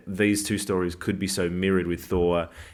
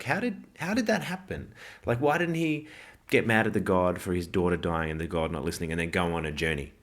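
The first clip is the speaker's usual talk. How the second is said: mock-bewildered fan, pitched up; incredulous moviegoer. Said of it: "and you're like".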